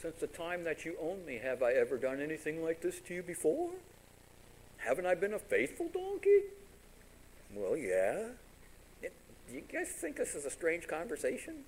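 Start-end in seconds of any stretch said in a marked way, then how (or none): 0.0-6.4 soft, plaintive donkey; talking donkey voice. Acted. Faithful donkey questioning its angry master, softly pleading. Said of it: "But the donkey says". 7.5-8.3 low, soft concession; sheepish admission. Acted. Master answering his donkey, sheepishly conceding.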